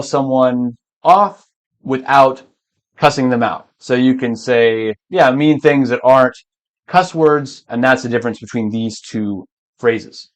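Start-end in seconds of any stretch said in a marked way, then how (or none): 3.8-10.3 slightly breathless teacher; out of breath. Real, not acted. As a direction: talk while short of breath. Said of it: "I need to catch my breath".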